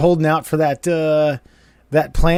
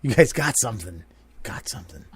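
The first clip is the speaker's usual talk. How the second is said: slow, hushed quote fading out; Jimbo Rowland; 4 semitones lower, 5 dB quieter than usual. Retold or imitated. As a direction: imitate a friend's earnest plea, softly trailing away. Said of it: "words of our good friend Jimbo Rowland".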